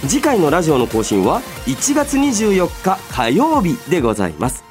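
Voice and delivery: ordinary talk, nothing marked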